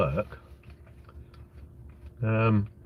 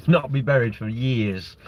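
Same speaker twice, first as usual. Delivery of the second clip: chuckling through it, a touch slower; amused slower retake with a laugh; 3 dB louder, slower than usual. Real, not acted. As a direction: laugh as you repeat the joke. Laughs at own joke.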